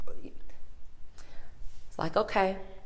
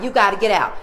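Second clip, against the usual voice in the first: mock clerk yell; 4 semitones higher, 6 dB louder than usual. Clerk throwing her out.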